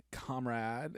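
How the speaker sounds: softly put-on effeminate voice. Shown as a demonstration. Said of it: "kind of a, effeminate, like".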